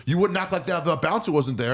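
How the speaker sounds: high-pitched imitation of an affronted heckler; mock indignant. Cokehead calling out the comic behind the bouncer, mock indignant. Retold heckler challenges the storyteller.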